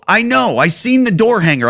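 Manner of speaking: retelling the rat bait argument, annoyed; irritated retort. Retold or imitated. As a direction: bite back at the worker, fed up. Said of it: "that's not why I'm acting like an asshole".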